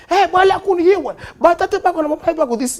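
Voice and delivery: high mock Congolese quarrel; comic Congolese accent; Congolese accent argument. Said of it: "where they start arguing".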